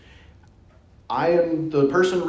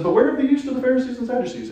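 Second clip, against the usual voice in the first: Jesus warning; 10 semitones higher, faster than usual. Retold or imitated. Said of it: "And Jesus says".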